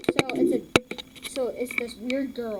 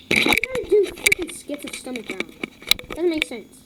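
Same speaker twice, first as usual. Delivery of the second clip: exasperated rant; 4 semitones higher than usual. Real, not acted. Kid ranting at a girl's stomach-growl channel, exasperated. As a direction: scold her in disbelief.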